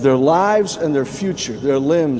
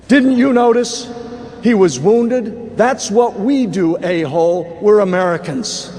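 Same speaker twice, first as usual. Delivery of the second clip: retold shout; 3 semitones higher, slower than usual. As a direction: shout it back proudly over the gunfire. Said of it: "And the corpsman shouts out".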